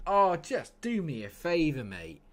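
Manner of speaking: high, loud protest; exasperated outburst. Real, not acted. Gamer fed up with his match, loud exasperated protest. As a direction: burst out loudly at the game, fed up. Exasperated at the game going wrong.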